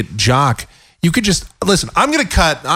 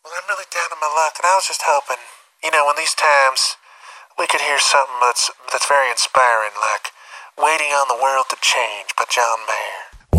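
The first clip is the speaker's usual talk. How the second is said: softer, mopey caller request; mock sad caller; 5 dB quieter than usual. A down-on-her-luck caller asking Delilah for a song, softly. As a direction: sigh it out like a lonely listener. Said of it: "it's just like".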